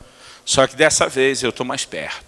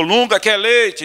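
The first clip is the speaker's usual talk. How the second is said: higher, slow, sweet wife voice; wife's question; 8 semitones higher, much slower than usual. Retold or imitated. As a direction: ask slowly like a doting wife. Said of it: "a mulher perguntou". (voz de esposa, aguda e lenta)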